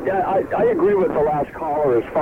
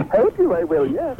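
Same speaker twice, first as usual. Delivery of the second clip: Yoda voice; 9 semitones higher than usual. Pretend. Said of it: "Dueling Yoda impersonation".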